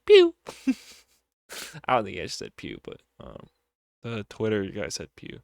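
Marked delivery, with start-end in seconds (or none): 0.1-0.3 mock gunshot pew. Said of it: "he goes".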